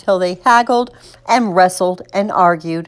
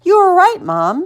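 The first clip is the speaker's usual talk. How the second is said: put-on child's raised-voice call; 11 semitones higher than usual. A narrator's reading. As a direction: call to mom from the bedroom, starting high. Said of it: "Spencer called from his bedroom".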